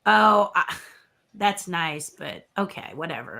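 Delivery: trailing off into an unimpressed whatever; a hint of not caring; dismissive shrug. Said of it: "And I was like".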